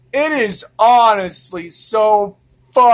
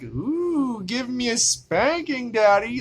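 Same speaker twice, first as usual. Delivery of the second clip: soft, higher, teasing come-on voice; mock seductive; 4 semitones higher, 6 dB quieter than usual. Mocking adult women who want spanking, soft teasing coo. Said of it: "they're like".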